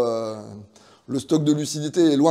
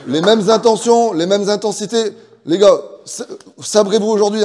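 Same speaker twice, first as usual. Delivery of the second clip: rousing pep talk; 5 semitones higher, 5 dB louder than usual. Real, not acted. Coach pep talk to players.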